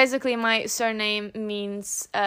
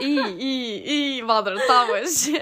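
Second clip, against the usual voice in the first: nagging mother; 2 semitones higher, 8 dB louder, slower than usual. Retold or imitated. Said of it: "Joanna is like a mother to me".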